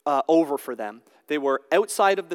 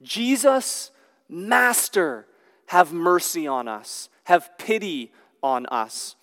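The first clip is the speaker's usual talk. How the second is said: megaphone call; slower than usual. Retold or imitated. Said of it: "they're calling out from a distance".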